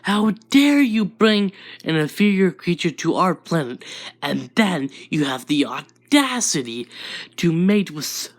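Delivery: mild acted yell of an outraged father; half-strength angry rant, leaning on key words; yelling dad. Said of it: "Inko's dad yelling".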